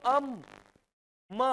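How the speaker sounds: अम closed off into a held म; closing on M. Shown as a demonstration. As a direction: let अम stop on the lips at म. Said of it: "रबक रहा है".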